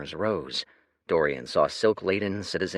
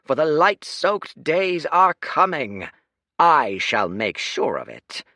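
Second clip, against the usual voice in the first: raised, stately public address; a proud ruler proclaiming to a crowd; lordly speech; 6 semitones higher, 6 dB louder than usual. Acted. The Oasis Lord addressing the crowd, stately and raised.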